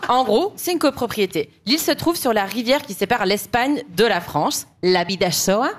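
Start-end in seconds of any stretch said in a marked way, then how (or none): 4.8-5.7 Spanish-accented river name; lightly put-on Spanish pronunciation. Shown as a demonstration. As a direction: show off a touch of Spanish accent. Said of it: "Vous avez vu cet accent".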